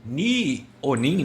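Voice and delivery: "Ni" and "Nin" said very slowly; drawn-out "Ni ou Nin"; slow Mandarin demo of "Ni" and "Nin"; Mandarin words. Shown as a demonstration. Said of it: "no mandarim você fala assim".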